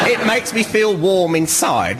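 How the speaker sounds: high, slow, hammed-up sentiment; mock heartfelt. Contestant on being called Claire, mock heartfelt. Playing up pleasure at being misnamed.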